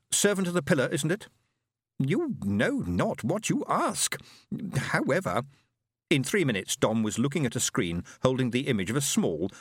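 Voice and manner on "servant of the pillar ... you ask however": stately high alien voice; alien Fenobe. Acted.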